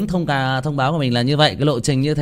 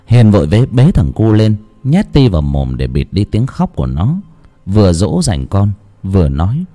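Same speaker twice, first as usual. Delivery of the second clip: tense narrator voice; mild suspense reading; story narration; 5 dB louder than usual. A narrator's reading. Narration between quotes.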